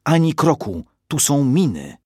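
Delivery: high, loud alarmed cry; a mother's panic to freeze her child; urgent warning shout. Acted. Mother warning daughter about mines among rubble, shouting.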